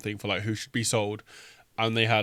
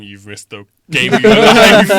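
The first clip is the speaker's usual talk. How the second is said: louder and slow, hammed-up; dramatic exclamation; 4 semitones higher, 13 dB louder, slower than usual. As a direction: oversell it like a trailer. Mock dramatic exaggeration.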